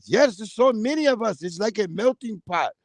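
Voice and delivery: mock Arab-accented food vendor. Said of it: "He was an Arab too".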